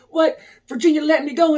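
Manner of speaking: high, loud incredulous protest; re-enacted stunned objection; retold disbelief. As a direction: protest as if they've got it all wrong. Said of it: "I'm just like".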